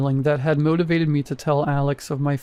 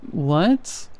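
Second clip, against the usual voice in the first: high drawn-out what; 2 semitones higher than usual. A narrator's reading. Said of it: "more high-pitched and drawn out".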